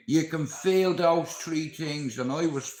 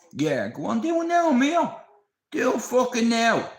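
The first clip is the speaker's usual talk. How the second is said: much higher, louder taunting yell; cocky shout; 9 semitones higher, 4 dB louder than usual. Retold or imitated. Taunting the prisoner at his cell door, loud cocky shout. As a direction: dare him to do it now, shouting. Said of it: "me being cocky, I'm like".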